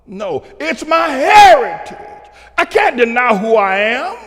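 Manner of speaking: usual speaking voice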